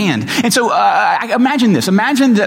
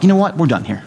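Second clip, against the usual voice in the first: retold meltdown, rising higher and higher to a near-cry; mock despair, building; 4 semitones higher, faster than usual. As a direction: spiral from a sigh into a teary, high-pitched wail. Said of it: "I was like".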